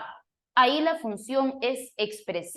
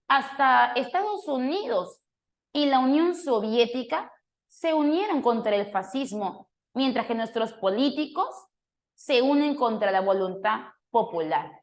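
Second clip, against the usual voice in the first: exclaimed. Shown as a demonstration. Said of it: "lo dice entre signos de exclamación".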